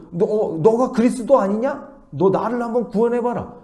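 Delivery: high, loud mocking challenge; rude, insolent. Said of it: "네 가지 없게 말을 하죠".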